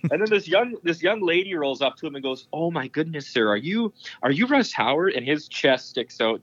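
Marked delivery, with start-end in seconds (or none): 2.5-5.1 mildly gushing, higher-pitched fan quote; lightly acted starstruck excitement. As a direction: imitate an awed fan asking who he is. Acts out starstruck young fan.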